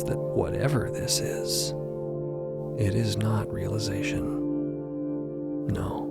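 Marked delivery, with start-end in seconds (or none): none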